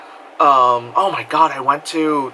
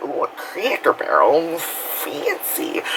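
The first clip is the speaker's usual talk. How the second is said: mock southern accent; 3 semitones higher, 4 dB quieter, slower than usual. Storyteller mocking the fancy Cracker Barrel choice, southern accent. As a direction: play it grand in a southern accent. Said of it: "speaking of the, the southern accent".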